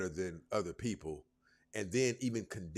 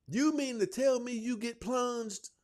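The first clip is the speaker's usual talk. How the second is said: high, drawn-out incredulous question; mock disbelief; 14 semitones higher, 4 dB louder than usual. Real, not acted. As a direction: squeal it slowly in amused disbelief.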